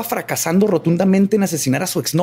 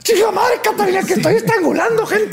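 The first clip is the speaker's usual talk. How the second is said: furious shout. Acted. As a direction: bellow it in mock rage. Acted killer shouting. (grito furioso)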